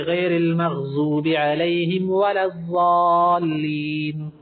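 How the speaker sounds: الضالین slowly recited with ض as z, zaalleen; wrong zuaad demo. Shown as a demonstration. The teacher imitates those who read ض as z. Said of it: "بعض لوگ اس طرح کرتے".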